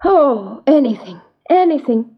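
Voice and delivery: lightly acted tearful pleading; desperate maiden. Eloise begs the dwarf to help, mildly desperate. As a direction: plead as a desperate young heroine, understated.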